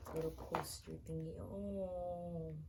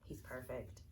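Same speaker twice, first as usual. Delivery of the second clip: soft awe; 4 semitones lower, 6 dB quieter than usual. Real, not acted. Repeats praise, varied takes.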